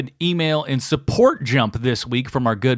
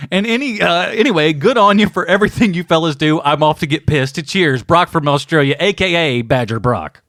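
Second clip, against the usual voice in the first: light mock-Aussie sign-off; bad Australian accent. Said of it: "help you with your terrible accent".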